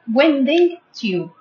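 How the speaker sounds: "Winding tube" repeated slowly, each syllable clear; careful, drawn-out teacher repeat; slow model repeat. Shown as a demonstration. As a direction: say "Winding tube" slowly so pupils can copy. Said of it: "Don't forget this word".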